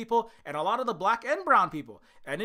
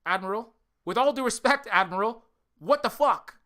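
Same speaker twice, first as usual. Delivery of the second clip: angry outburst; 2 semitones higher, 5 dB louder than usual. Pretend. Protester yelling at the admiral, furious. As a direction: yell at the admiral in disbelief. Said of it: "addressing the admiral directly".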